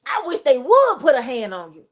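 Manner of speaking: a hint of a sassy comedian; mildly sassy dare, like a comic God; Cedric the Entertainer. God warns anyone against touching Cain, lightly sassy. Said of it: "God came in like Cedric the Entertainer".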